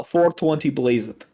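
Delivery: slow, heavy Russian accent. Shown as a demonstration. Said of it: "in a Russian accent for me?".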